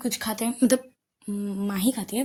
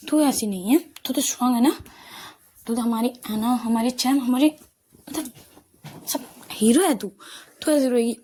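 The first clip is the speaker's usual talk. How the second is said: rally a crying friend with a loud, upbeat push; loud comforting pep talk; 3 semitones higher, 5 dB louder than usual. Acted. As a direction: cheer her up, louder and higher, pleading with her.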